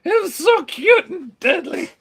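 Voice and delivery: high, squeaky cooing voice; squeaky baby-talk voice; cutesy squeal. Pretend. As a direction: coo over it like it's adorable. Gushing over the creature art.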